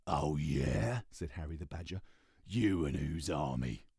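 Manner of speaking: a tough badger scoffing; gruff mocking badger. Harry the Badger voiced.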